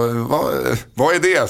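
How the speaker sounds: light impression, rising at the end; a hint of the radio host asking; imitating Anders S Nilsson. Host retells radio host's question, lightly imitated voice. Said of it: "Nu imiterar jag inte längre".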